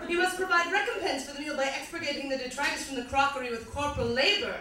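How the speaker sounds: slightly bad British recital; quasi British accent. Comic recites a song to audience, slightly bad British accent. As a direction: read it as poetry in mock-British English. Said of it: "slightly bad British accent".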